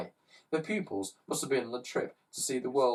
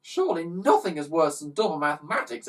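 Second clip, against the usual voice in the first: exclaimed; 4 semitones higher, 3 dB louder than usual. Acted. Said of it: "exclaimed Ned".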